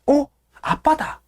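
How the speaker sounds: a hint of an excited little boy; child's voice. Yniold sees father at window, lightly voiced child.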